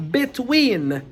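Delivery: emphatic loud "between"; stress on between. Shown as a demonstration. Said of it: "I'll say it again".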